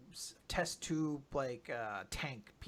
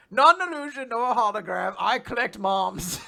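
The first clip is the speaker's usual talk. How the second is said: Ziggy's villain voice; 2 semitones higher, 5 dB louder than usual. Retold or imitated. Ziggy answers the heroes, hammy loud villain boast. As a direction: declare it like a proud collector. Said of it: "And Ziggy's like".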